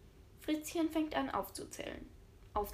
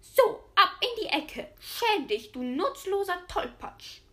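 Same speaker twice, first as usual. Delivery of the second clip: much higher, louder granny yelling; bellowing; 7 semitones higher, 6 dB louder than usual. A narrator's reading. Grandma sends clumsy Fritzchen to the corner, yelling. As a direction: roar the boy into the corner. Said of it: "Da brüllt die Oma".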